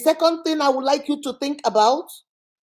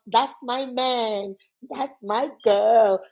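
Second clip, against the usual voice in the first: dreamy mock quote; much slower than usual. Voicing people in love with an idea.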